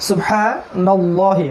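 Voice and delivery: সুবহানাল্লাহি very slow, with a heavy ল. Shown as a demonstration. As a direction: draw out সুবহানাল্লাহি with a full, dark ল. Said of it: "ভারী করে পড়বো".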